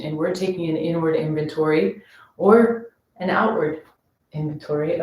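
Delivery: soft-spoken meditation guide; guided meditation. Acted. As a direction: ease them gently into the practice. Leads the sensory orientation.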